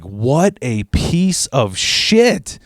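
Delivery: slow, disgusted aside under the breath; a kid's disgusted slow verdict; disgusted mutter. Retold or imitated. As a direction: drag it out in contempt. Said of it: "I was just like".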